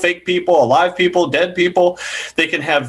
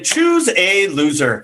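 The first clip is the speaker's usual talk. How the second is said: announcer voice; much slower than usual. Acted. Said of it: "host announcing game title".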